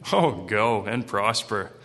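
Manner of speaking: slow, drawn-out mock agreement; sarcastic. Prophet answering the king about going to battle, sarcastic. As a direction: play the prophet humouring the king. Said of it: "He's the Captain Sarcastic with the king".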